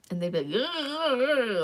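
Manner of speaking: imitating a clumsy rolling R attempt; failed tongue roll. Imitating Greek grandparents trying to roll their tongues, clumsy trill. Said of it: "they tried to do it".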